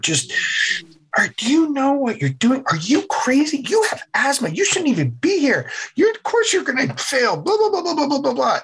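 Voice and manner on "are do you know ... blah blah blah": high, nagging whine, much higher pitched; mock the panicky inner whiner pleading to quit; whiny inner voice. Guest voicing his inner whiner during Hell Week, high nagging whine. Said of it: "the whiner is just on full volume".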